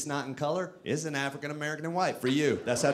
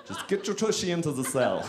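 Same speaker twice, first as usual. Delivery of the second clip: lightly voiced, whimsical German-accented guard; terrible German prison guard; 2 semitones higher than usual. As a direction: give an order in a playful mock-German accent. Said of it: "make a terrible German prison guard".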